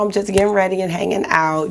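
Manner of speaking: rough just-woke-up voice; morning voice. Real, not acted. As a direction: talk in your morning voice. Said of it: "You can hear my morning voice".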